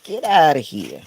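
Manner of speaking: loud shout to chase birds off; shooing the birds. Real, not acted. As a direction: yell it at the pesky blackbirds. Shooing demanding blackbirds away.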